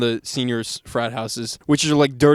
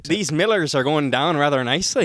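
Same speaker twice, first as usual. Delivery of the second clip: Irish accent attempt; 2 semitones higher than usual. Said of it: "can we hear you do an Irish accent".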